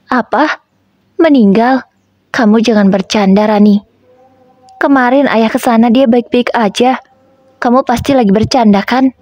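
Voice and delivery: a father who can't accept the news; understated shock, pleading it's a joke; disbelieving. Acted. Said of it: "ucap ayah tak percaya".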